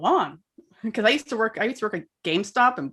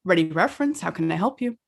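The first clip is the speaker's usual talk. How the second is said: polite phone greeting, a bit lower; librarian phone voice; 3 semitones lower, faster than usual. Shown as a demonstration. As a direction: answer the library reference line. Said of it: "do you wanna hear my, uh, my, my librarian voice?".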